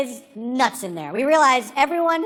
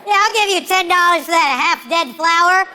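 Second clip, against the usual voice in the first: loud mock haggling; 3 semitones higher, 5 dB louder than usual.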